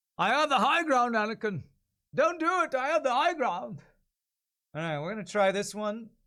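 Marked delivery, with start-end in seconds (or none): 0.2-3.8 posh British English accent, pitched up. Trying out a voice before recording a demo, as a Ewan McGregor impression. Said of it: "Invoke Ewan McGregor".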